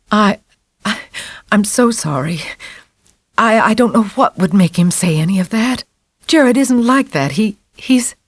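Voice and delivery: mother apologizing helplessly to the priest; helpless stammer. A narrator's reading. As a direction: stumble over the words, lost. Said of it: "shook her head helplessly".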